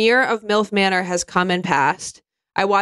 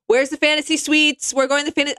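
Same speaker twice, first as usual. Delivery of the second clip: mock brash villain; 6 semitones higher than usual. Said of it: "starts saying".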